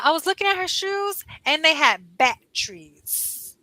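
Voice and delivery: retold Oklahoma twang, "batteries" squeezed to "bat-trees"; Southern accent. Teacher quoting her Oklahoma friend, imitated Southern accent. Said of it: "the way that she pronounced it was batteries".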